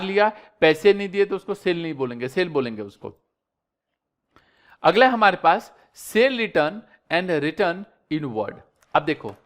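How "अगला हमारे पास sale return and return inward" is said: slow dictation. Shown as a demonstration. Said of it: "reads heading slowly".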